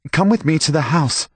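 a master used to obedience; commanding master. A narrator's reading. Master orders stable boy.

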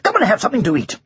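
high-pitched jolly invitation; jolly knight calling out; cheery. A narrator's reading. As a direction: greet an old friend high and cheerily. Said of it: "said the knight cheerily".

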